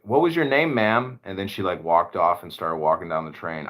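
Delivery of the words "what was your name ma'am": mock polite. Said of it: "And I was like".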